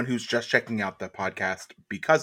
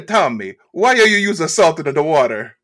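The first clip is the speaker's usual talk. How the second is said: loud, high New Jersey mom scolding; mom's New Jersey accent; 5 semitones higher, 9 dB louder than usual. Acted. Mom scolding little Tommy in a New Jersey accent. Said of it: "a great impression of his mom".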